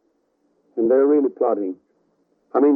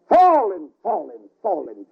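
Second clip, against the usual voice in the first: preacher crying out the falling rain; dramatic falling; 4 semitones higher than usual. Acted. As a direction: let the word fall from a peak.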